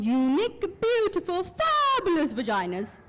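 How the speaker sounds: lightly mimicked gushing workshop leader; a hint of an effusive group leader; workshop leader's words. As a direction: quote her with swelling, emphatic enthusiasm. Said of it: "That's what she called it".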